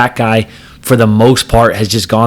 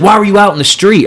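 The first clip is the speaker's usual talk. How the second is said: high, louder accusing whine; mocking the driver; 10 semitones higher, 3 dB louder than usual. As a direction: mimic the driver blaming him. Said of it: "he's like".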